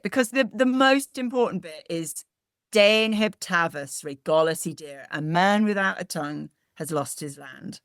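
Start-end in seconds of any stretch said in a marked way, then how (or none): 2.7-5.1 careful Cornish 'Den heb tavus regolis i dir'; Cornish phrase. Shown as a demonstration. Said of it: "Should we do the end bit?".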